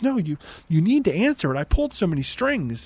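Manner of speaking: mock-urgent boyfriend pressing her; insistent urging. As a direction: lean on him insisting she pick up. Gabe insisting she answers.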